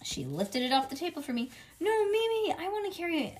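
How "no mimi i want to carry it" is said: put-on high-pitched child's protest; hollered. A narrator's reading. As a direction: protest in a raised, high kid voice. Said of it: "I hollered".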